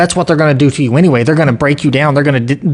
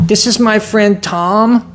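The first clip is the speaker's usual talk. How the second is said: mocking daughter; 5 semitones higher, slower than usual. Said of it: "she says".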